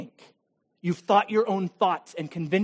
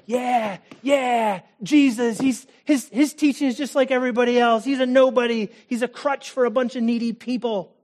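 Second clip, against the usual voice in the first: loud, higher mocking jeer; scoffing soldiers; 4 semitones higher, 4 dB louder than usual. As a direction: sneer like rowdy soldiers.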